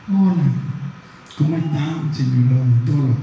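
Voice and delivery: loud, bright greeting to the dentist. Shown as a demonstration. Lecturer greets a dentist, loud version. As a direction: hail him loudly, the first way. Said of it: "Dije lo mismo... cambié el tono de la voz".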